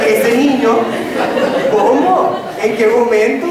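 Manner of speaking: laughing "¿cómo?"; incredulous. Retold or imitated. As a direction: ask how it could possibly be. Retold disbelief at the boy.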